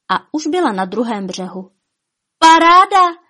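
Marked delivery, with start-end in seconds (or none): 2.4-3.2 high, loud gleeful exclamation; delighted. A narrator's reading. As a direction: cheer it out in joy. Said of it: "rozesmála se".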